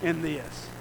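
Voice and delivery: slow plea fading to a near hush; crying out to Jesus. Retold or imitated. Believer in the storm crying out to Jesus, slow then fading. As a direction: ache it out, then let it fall away. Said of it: "start crying out for Christ and say".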